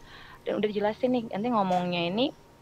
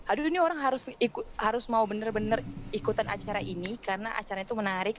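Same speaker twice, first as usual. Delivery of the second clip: persuasive radio pitch; 2 semitones higher than usual. Shown as a demonstration. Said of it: "ngandelin suara kita yang".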